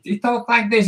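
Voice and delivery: soft lisping boxer voice; Mike Tyson. Retold or imitated. Cartoonist mimicking a boxer for viewers, soft lisp. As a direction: talk softly with a lisp on the s. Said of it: "He doesn't talk the way he looks".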